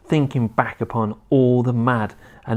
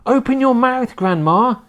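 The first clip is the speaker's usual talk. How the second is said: high, louder urgent call; crying out; 10 semitones higher, 3 dB louder than usual. A narrator's reading. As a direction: urge her, calling out high. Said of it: "he cried".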